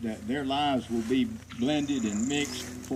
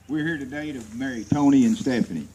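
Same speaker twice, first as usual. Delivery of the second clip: louder, for everyone; 7 dB louder than usual. Real, not acted. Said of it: "Okay, y'all got it now".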